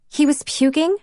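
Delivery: surprised. Acted. Cassie shocked by the news.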